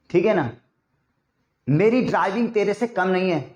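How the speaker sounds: ordinary delivery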